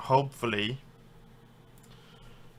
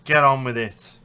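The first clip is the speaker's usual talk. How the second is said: frustrated shout; 7 dB louder than usual. Real, not acted. Urging referee to hurry.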